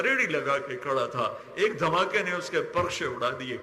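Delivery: fervent prayer, pleading with God; impassioned supplication. Real, not acted. Preacher pleads to God for a wounded country, impassioned supplication. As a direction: pray aloud with urgent feeling.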